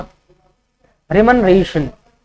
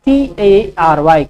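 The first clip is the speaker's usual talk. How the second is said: slow letter-by-letter dictation; slow spelling dictation; spelling out slowly; much slower than usual. Shown as a demonstration. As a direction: spell each letter clearly for students. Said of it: "कमेंट्री का spelling क्या होगा".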